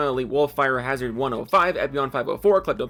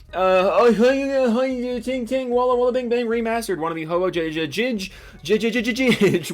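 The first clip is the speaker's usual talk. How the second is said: high, sing-song gibberish; playful babbling chant; silly nonsense riff; 6 semitones higher, 4 dB louder than usual. Pretend. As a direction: goof around with nonsense syllables.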